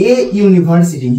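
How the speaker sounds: a university read slowly and clearly; slow example. Shown as a demonstration. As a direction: spell the example out for students. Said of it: "দেখো".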